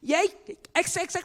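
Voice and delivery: imitating someone swearing; mock cursing. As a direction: fling a curse at someone. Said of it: "욕을 해서가".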